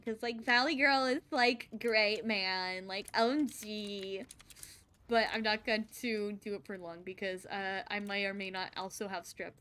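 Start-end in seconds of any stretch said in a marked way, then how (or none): 0.0-4.2 put-on light Valley Girl voice, drawn-out ending; playful Valley Girl imitation; Valley Girl accent. Shown as a demonstration. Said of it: "I'll do, like, a Valley Girl".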